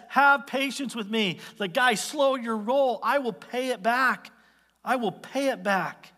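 high, drawn-out plea; pleading. Acted. Fellow servant begging his creditor for patience, pleading. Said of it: "He pleads".

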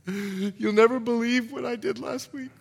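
hushed-shock confession, acted out; confessing congregant. Congregant confessing to the pastor, mock shock. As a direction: play a congregant breaking scandalous news.

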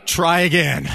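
half-mock, loud insistence to the agent.

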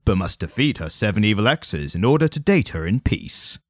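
lightly dramatic announcer read; movie trailer voiceover. Pretend. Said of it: "movie trailer voiceover".

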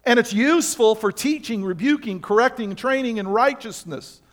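measured scripture quote; scripture reading. Acted. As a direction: lay the verse out deliberately. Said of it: "he says".

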